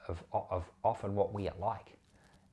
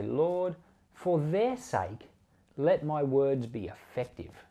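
earnest prayer; 3 semitones higher, slower than usual. Retold or imitated. Preacher recalling his prayer before a sermon, slow earnest plea.

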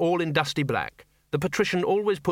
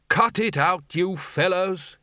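raised commanding call; 7 semitones higher, slower than usual. A narrator's reading.

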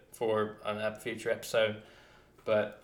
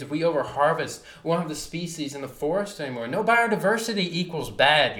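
fired up; 4 semitones higher, 4 dB louder than usual. Real, not acted. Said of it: "this fires me up, dude".

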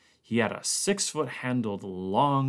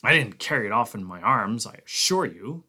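snapped; 4 dB louder than usual. Acted. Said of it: "Conant snapped".

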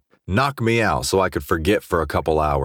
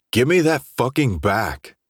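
higher-pitched, mildly heated demand; angry demand; 7 semitones higher than usual. A narrator's reading. Drunk Jace demands his bottle from Jamal, mildly angry. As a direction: demand it back with some heat.

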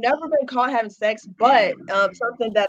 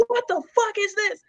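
high, hushed shocked question; hushed disbelief from dad; 11 semitones higher, 7 dB quieter than usual. Retold or imitated. Dad finding the restraints, hushed shock. Dad finds toy chest.

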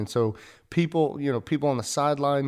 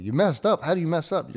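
pitched up, a half-laughing "you messed up?"; incredulous disbelief; 6 semitones higher than usual. Retold or imitated. Retelling the disbelief when told about the failed race, higher incredulous voice. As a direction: retell your own stunned reaction to a friend. Narrator reacts in disbelief to Alex.

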